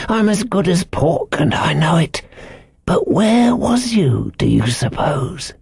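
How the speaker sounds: put-on high, slow old sailor's yarn; eccentric castaway, confiding. A narrator's reading. Ben Gunn's voice.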